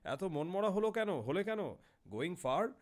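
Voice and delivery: a hint of the chatty foreign traveller; lightly voiced European passenger. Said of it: "সে বলল".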